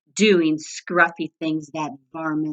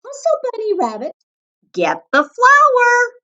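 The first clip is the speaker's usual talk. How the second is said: barked order; 7 dB louder than usual. A narrator's reading. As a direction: bark it like a bossy boss. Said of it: "barking orders".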